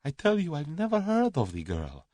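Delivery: high-pitched, insistent Russian denial; protesting Russian. A narrator's reading. Cornered man denies it.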